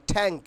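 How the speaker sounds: "ট্যাঙ্ক" with a puffed aspirated t; corrected pronunciation. Shown as a demonstration. Teacher modelling an English word for learners, corrected pronunciation. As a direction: say "ট্যাঙ্ক" starting on a th-like t. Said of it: "আচ্ছা, target বলবো না".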